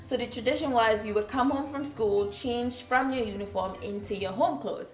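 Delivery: lightly voiced Trinidadian accent, storytelling. Shown as a demonstration. Vlogger telling her childhood story as she used to speak, Trinidadian accent. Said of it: "This is my original accent".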